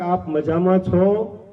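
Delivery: slow, courteous greeting with folded hands; polite respect. Retold or imitated. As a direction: ask gently, like a king honouring his gardener. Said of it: "હાથ જોડીને ઉભા રહીને કહેતા". (ધીમું, વિનમ્ર, આદરભર્યું અભિવાદન)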